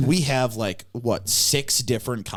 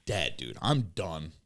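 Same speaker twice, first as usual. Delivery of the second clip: worn-out low voice; drained and tired; exhausted; 4 semitones lower, 4 dB quieter than usual. Real, not acted. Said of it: "I am absolutely shot right now".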